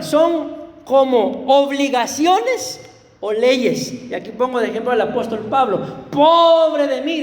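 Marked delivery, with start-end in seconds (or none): 6.1-7.2 slow, louder sighing "Pobre de mí"; hammed-up lament; mock lament. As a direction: stretch it out like a weary apostle. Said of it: "decía él".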